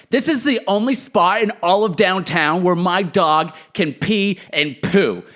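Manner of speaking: imitating a dog walker losing it, rising to a squeal; mock outraged dog walker. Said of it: "losing it over me".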